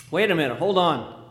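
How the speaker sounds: a father trying to stop them; alarmed protest. Acted. Father stopping staff taking his boy, loud alarmed protest.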